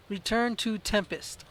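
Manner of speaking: "Return to Tempest" read out slowly, word by word; slow careful reading. Shown as a demonstration. Player reading the game's objective aloud, slowly. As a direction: spell out each word as you read it off the screen. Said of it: "let's read it this time".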